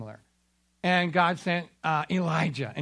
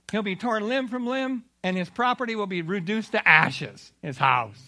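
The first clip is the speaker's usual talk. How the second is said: higher, louder royal proclamation; an awed king proclaiming God to all; king's proclamation; 6 semitones higher, 4 dB louder than usual. Acted. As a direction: proclaim it grandly. King's new decree.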